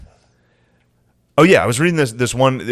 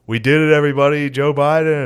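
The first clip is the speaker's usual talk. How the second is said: hyped announcer; 5 semitones higher, 3 dB louder than usual. Retold or imitated. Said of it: "he started it by being like".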